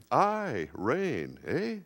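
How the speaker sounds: proud boast. Retold or imitated.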